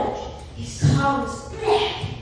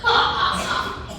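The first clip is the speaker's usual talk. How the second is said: acted storybook monster laugh; put-on scornful laughter; bursting laughter. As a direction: laugh out mockingly in separate ha's. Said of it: "bursting laughter".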